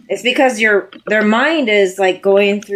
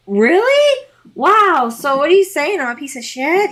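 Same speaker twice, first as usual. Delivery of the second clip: mock offended; 7 semitones higher than usual. Imitating the offended emotional.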